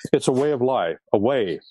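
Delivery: "way" leaned on each time; emphasize "way", then repeat it alone; stress on WAY. Real, not acted. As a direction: land firmly on the word "way". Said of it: "I stress the word way".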